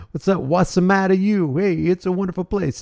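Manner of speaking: high, playful fake Italian accent; mock Italian accent. Playful comic catchphrase after name tries.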